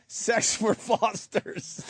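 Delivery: mock Australian accent. Host reads a listener's line in an Australian accent. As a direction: read the listener's line as a slow Aussie. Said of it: "just writes".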